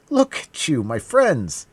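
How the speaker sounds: high, loud call to friends; alarmed cry. A narrator's reading. D'Artagnan warning his friends, high loud cry. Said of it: "cried D'Artagnan".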